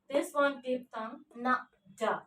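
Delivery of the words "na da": "na, da" as short separate sounds. Shown as a demonstration. Teacher sounding out the end of profound, "na, da" separately. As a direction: isolate "na" and "da" with a gap between. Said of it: "How to pronounce it?".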